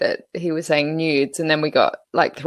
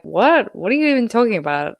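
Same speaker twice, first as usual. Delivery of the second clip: incredulous quote; 5 semitones higher than usual. Retold or imitated. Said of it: "and I was like".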